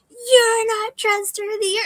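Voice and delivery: high, slow, loud mock accusation; imitating a yelled insult. Voicing the yeller in the exercise, slow hammed-up shout. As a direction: hurl it like the yeller at the end. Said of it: "just yelling their head off".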